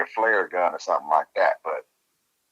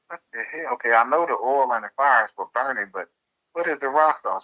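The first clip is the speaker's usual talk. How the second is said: higher, puzzled disbelief; pitched up, what-on-earth questioning; incredulous; 5 semitones higher than usual. Retold or imitated. Quizzing the coworker about rock salt, high and puzzled. Reacting to odd werewolf remedy.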